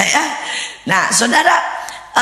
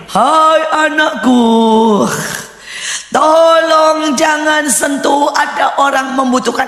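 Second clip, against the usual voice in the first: long, sung-out vowels, loud and stately; slow, overblown divine proclamation; mock-spiritual voice of God; 5 semitones higher, 3 dB louder, slower than usual. Preacher parodies God addressing his child, mock-spiritual voice. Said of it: "selalu rohani dan berkata begini".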